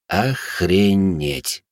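very slow, stunned exclamation. Acted. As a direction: let it out slowly in disbelief. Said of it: "ошарашенно подумал я".

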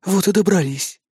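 fond, tender words. A narrator's reading. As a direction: say it lovingly. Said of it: "любовно погладил".

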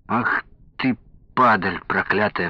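usual speaking voice

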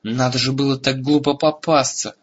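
mild self-reproach; a touch of exasperated anger; angry at himself. A narrator's reading. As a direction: exclaim in vexation at your own blunder. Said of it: "рассердился на себя Эрагон".

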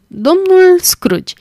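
slow, high laughing guess of the name. A narrator's reading. Wife teasing her husband with her guess, laughing. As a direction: tease him with the answer, laughing, drawn out. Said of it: "adăugă ea râzând".

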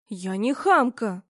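slow, firm self-defence; defensive. Acted. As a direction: insist you are not rude, slowly. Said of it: "встала на собственную защиту". (твёрдо, медленно, защищаясь)

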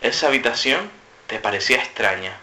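measured, slightly low game-master line; tono de narrador. Shown as a demonstration. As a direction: set up the scene evenly, a touch low. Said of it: "una frase cada uno en un tono diferente". (tono de narrador, algo grave)

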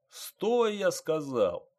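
loud, high-pitched furious order; yelling. A narrator's reading. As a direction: yell an order that is being ignored. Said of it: "заорал водитель".

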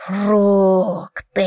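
drawn-out raspy ghostly call; a hoarse, drawn-out ghost calling out fruit. A narrator's reading. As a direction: rasp it out long like a ghost. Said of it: "хриплый и протяжный голос призрака".

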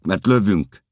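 loud, high final warning; shouted threat. Acted. Officers threatening to fire, shouted warning. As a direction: yell it as a threat. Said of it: "kiabálnak".

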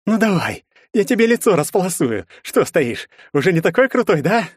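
threatening with a broken bottle; predatory taunt. A narrator's reading. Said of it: "хищно оскалился враг". (угрожающе, издевательски)

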